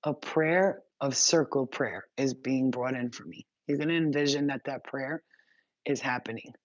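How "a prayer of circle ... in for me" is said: slow inner thought. Shown as a demonstration. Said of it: "think in your head".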